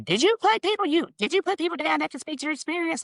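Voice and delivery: high, urgent imitated questioning; Jasmine quizzing excitedly. Friend checking on her references, excited quizzing.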